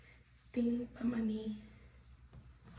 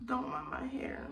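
whispering; 5 dB quieter than usual. Real, not acted. Whispering in bathroom after surgery.

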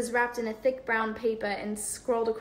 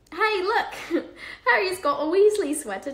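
laughing tease; 9 semitones higher, 7 dB louder than usual. A narrator's reading. Twins teasing, laughing.

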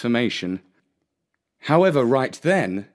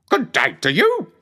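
high clucky hen voice; clucking hen; 8 semitones higher, 4 dB louder than usual. Acted. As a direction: cluck the greeting back. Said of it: "clucked back the hen".

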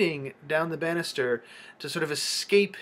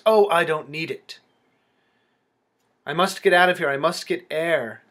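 urgent; 5 dB louder than usual. Acted. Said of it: "she quickly reverts".

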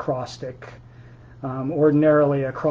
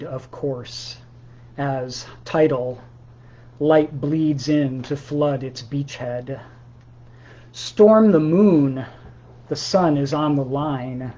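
slow, measured poem recital; poetry reading. Acted. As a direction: read it like a poem, each word weighed. Reads his own poem aloud.

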